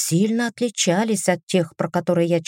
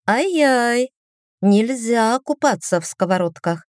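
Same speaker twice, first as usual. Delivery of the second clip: scolding governess; 4 semitones higher than usual. Acted.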